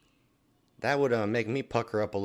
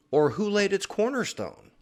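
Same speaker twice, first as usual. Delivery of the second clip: dramatic reading; 10 semitones higher, 6 dB louder than usual. Acted. Dramatic scripture reading, rising.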